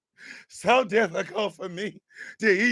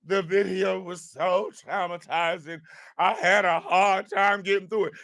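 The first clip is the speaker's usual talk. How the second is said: mocking whiny excuse; 3 semitones lower than usual. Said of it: "He already talking about".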